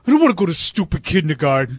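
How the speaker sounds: put-on whiny little kid voice; whiny child. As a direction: whine like a sulky five-year-old. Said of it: "he sounded like my five-year-old son".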